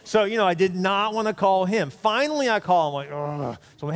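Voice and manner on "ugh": drawn-out groan of dread; reluctant groan. Acted. Pastor dreading the call for a ride, reluctant groan. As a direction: groan at an unwanted task.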